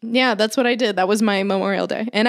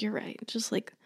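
meek quiet give-in; 9 dB quieter than usual. Retold or imitated. Told off, meekly giving in.

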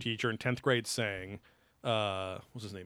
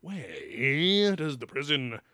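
droning teacher; much slower than usual. Retold or imitated. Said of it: "the other one that's like".

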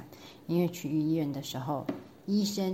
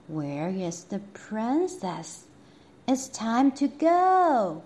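calling queen; 3 semitones higher, slower than usual. Acted. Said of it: "cried the queen".

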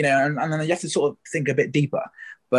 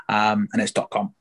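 normal talking voice

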